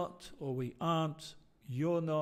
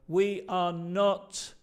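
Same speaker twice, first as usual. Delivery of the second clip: slow careful example; 4 dB louder, much slower than usual. Shown as a demonstration. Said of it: "Por ejemplo".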